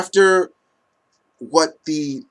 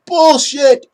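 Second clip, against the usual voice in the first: louder repeat of the scoff; loud dismissive yell; emphatic shout; 11 semitones higher, 7 dB louder than usual. Real, not acted. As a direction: hammer the word home. Rejecting a fan opinion again.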